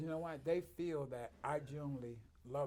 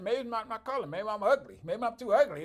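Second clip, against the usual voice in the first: mock self-deprecating; 9 semitones higher, 13 dB louder than usual. Retelling his reply to patients.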